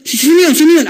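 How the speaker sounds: mildly astonished, voice lifted; curious onlookers. Retold or imitated. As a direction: imitate friends wondering who just arrived.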